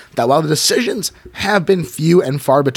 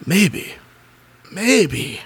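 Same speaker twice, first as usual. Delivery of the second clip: raised, worried mother's voice; higher mother voice; 6 semitones higher, slower than usual. Acted. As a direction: play the fretting mother, pitched up. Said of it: "Miss Vandergraff asks".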